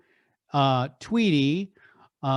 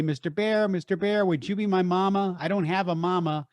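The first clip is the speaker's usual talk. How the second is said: Yacky Doodle voice; 3 semitones higher than usual. Retold or imitated. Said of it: "And he would say".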